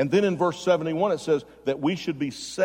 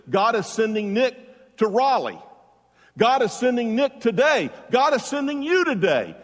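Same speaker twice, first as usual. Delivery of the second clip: builds higher and louder with each line, ringing out; rising preaching climax; 6 semitones higher, 3 dB louder than usual. Real, not acted. Pastor lifting the congregation, building to a loud preaching peak. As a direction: preach it to the rafters, climbing each time.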